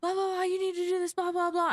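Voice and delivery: nagging lady. Retold or imitated. Flight attendant imitating a pushy passenger, mock rant. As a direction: rattle off blah blah as a pushy lady. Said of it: "in my face".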